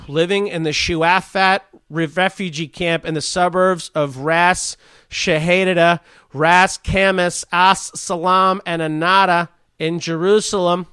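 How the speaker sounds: slow, halting over Ras Kamis and As Salam; careful halting reading of place names; struggling with names. Real, not acted. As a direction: sound it out carefully, unsure. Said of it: "oh, this is gonna be a bad one".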